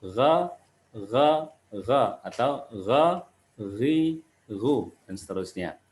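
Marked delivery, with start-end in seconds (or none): 0.0-2.0 "Gha" voiced from the upper throat; open ghain. Shown as a demonstration. Teacher drilling pupils, "Gha" without pouting. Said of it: "pengucapannya nggak boleh monyong". 2.8-4.9 "gha, ghi, ghu", each with gargled GH; ghain with three vowels. Shown as a demonstration. Teacher running through the vowels, ghain in "gha, ghi, ghu". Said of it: "huruf ghain sama di pangkal sini".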